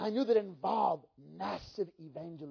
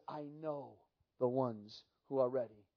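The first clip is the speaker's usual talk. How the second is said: strong but gentle; 8 semitones lower, 7 dB quieter than usual. Retold or imitated. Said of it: "this strong but gentle voice".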